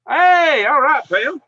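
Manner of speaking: high, loud burst of joy on seeing her name; delighted greeting. Real, not acted. Host greets old space friend Pam in chat, delighted and loud.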